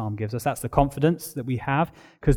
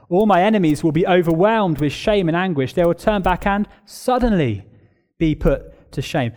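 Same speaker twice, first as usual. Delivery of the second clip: louder, higher, pressing reading of the verse; emphatic reread; 4 semitones higher, 4 dB louder than usual. Shown as a demonstration. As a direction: read it again with more force and pitch. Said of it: "verse ten".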